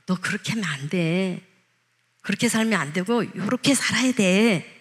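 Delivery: a quiet, kind correction, not a scolding; gentle correction. Retold or imitated. The Holy Spirit gently correcting a believer, softly.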